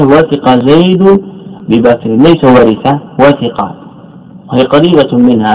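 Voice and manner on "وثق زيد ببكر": teacher dictating وثق زيد ببكر; measured example. Shown as a demonstration. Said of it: "لعل المثال الصحيح".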